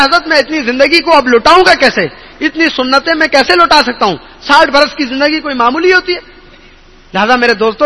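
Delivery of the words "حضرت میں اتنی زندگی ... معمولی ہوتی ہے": higher, pleading lament; a touch of an old man's weeping plea; crying old man. Retold or imitated. Old man cries to the Hazrat over lost prayers, tearful. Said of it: "وہ رونے لگا".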